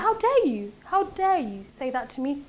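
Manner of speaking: indignant retort. Acted. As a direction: act out offended outrage. Acted indignant retort to an insult.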